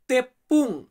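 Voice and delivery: তেপ্পুং lifted a little, the word set apart; Malay word. Shown as a demonstration. Teacher repeating তেপ্পুং for viewers learning Malay. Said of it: "Malay শব্দার্থ".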